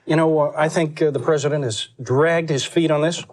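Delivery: lightly voiced Dukakis, earnest campaign tone; a hint of Dukakis making his pitch; Dukakis impression. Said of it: "still do Dukakis".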